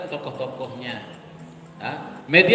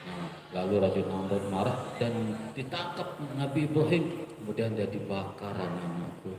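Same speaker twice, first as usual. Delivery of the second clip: flat dull storytelling; 5 semitones lower, 5 dB quieter than usual. Shown as a demonstration. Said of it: "Nah, kemudian".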